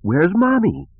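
put-on high child voice, mild distress; crying little girl. A narrator's reading. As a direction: cry out for a parent without real sobbing. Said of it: "between sobs cried out".

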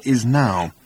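firm, mildly growled finish; low growl. A narrator's reading. Ford finishing his order to Arthur, low growl. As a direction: land it with curt finality. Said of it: "continued Ford in a low growl".

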